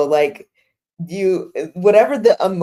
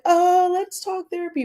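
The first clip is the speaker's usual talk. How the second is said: mock eager suggestion; 13 semitones higher than usual. Quoting her own eager suggestion.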